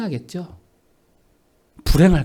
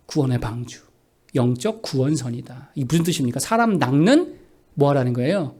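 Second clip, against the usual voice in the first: ordinary talk, nothing marked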